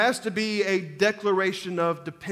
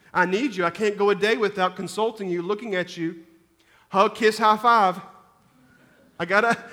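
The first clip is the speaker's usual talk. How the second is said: needy prayer; 4 dB louder than usual. Pretend. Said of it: "like always".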